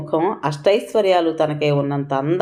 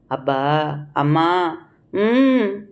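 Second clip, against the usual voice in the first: feverish moan; much slower than usual.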